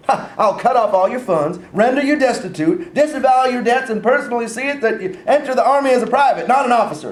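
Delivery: rising, escalating threat; building stern threat. Acted. Father threatening son, rising.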